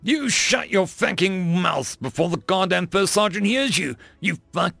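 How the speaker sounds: high, forceful military telling-off; angry snap. A narrator's reading. Kowalski silencing Kimber, angrily snapped. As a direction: snap it, pitched well up. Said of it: "Kowalski snapped".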